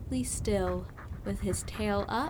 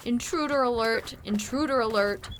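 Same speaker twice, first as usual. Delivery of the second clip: yelling alert; 2 semitones higher than usual. Acted. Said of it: "Rodney yelled".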